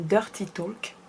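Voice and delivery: "Dirty Talk" in a French accent. Shown as a demonstration. Vlogger showing how Dirty Talk sounds, French accent. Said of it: "Avec l'accent français, ça donne".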